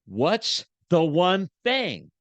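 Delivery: a baffled city slicker drawing the question out; Billy Crystal asking. Retold or imitated. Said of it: "And then Billy Crystal says".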